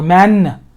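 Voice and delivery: man with a firm released n; hitting it. Shown as a demonstration. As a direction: hit the final n of man. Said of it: "you're hitting the, you're hitting it".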